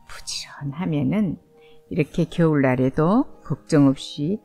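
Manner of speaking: gentle questions to little listeners; reading to a toddler. Acted. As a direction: ask the kids sweetly, storyteller style. Asks the child listeners.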